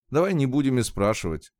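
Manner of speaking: ordinary delivery, nothing marked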